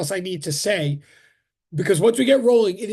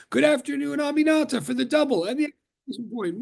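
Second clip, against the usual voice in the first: bright, higher greeting to match the chat; playfully matching the chat's exclamation points; mock yelling; 4 semitones higher, faster than usual. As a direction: pump up the enthusiasm. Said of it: "I'll try to match it by yelling".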